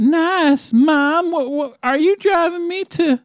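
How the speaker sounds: a hint of a shocked kid; lightly voiced teen.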